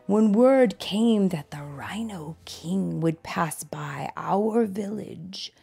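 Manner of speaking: measured, expressive read-aloud with drawn-out key words; storybook narration. A narrator's reading. Tiger telling a child his life story, storybook narration. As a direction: read it like a picture book, savoring words.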